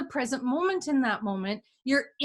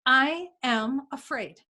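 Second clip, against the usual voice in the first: slow acknowledgement; slower than usual. Shown as a demonstration. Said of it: "you acknowledge it".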